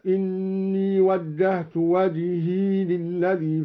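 وجهي ends in long "ee", "wajhee", no final a; slow chant, وجهي as "wajhee"; vowelless ya. Shown as a demonstration. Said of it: "وسكن الياء".

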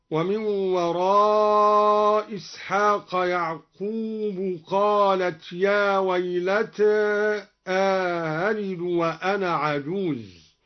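يعقوب with damma, "ya'qubu", slow; slow, say يعقوب as "يعقوبُ", nominative; Duri reading. Shown as a demonstration. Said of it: "قرأ الدوري برفع يعقوب". (يعقوبُ بالرفع)

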